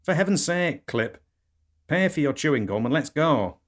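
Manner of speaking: high, loud scolding wife voice; exasperated wife. Acted. Wife hurrying her husband along, exasperated.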